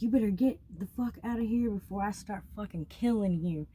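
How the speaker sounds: imitating a threat with some heat; retold threat. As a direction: act out an angry man ordering someone out. Retells the man's threat.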